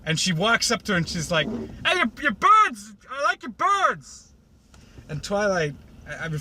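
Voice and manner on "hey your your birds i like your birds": high, loud cartoon chirp of delight; squeaky eager greeting. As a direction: gush at the birds like an overeager pony. Twilight greeting Fluttershy.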